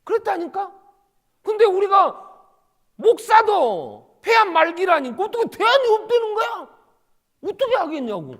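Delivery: 높고 크게 목청 높인 설교; 답답함을 터뜨리듯 외치기. Real, not acted. 설교자가 목청 높여 외침. (청중에게 목청 높여 외치는 설교자)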